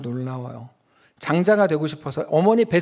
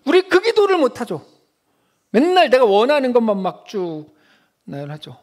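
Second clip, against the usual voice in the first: exclaiming; 4 semitones higher, 5 dB louder than usual. Real, not acted. Preacher mocking selfish prayer.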